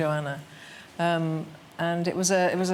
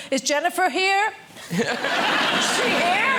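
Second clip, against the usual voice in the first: imitating drag queens; 9 semitones higher, 3 dB louder than usual. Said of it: "They go".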